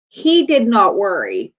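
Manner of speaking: slow, deliberate "he did not worry"; emphatic restatement. Real, not acted. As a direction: spell out "he did not worry" slowly, falling at the end. Emphatic repeat after "I mean.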